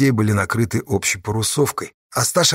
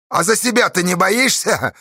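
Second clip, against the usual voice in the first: mocking question; 10 semitones higher than usual. A narrator's reading. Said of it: "насмешливо спросил Асташу Бесов".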